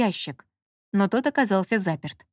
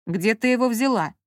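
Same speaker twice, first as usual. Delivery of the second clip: distrustful. A narrator's reading. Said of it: "недоверчиво поинтересовался Маркиз".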